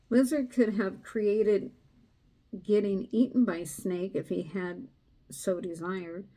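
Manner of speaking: steady storytelling read; story narration. A narrator's reading. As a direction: read the tale to a listener. Card meaning read aloud.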